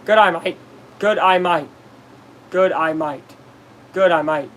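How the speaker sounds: lightly put-on Australian accent; a touch of Australian twang; mock Australian accent. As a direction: try out an Australian "g'day mate". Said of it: "You cannot say "good, I might" without sounding".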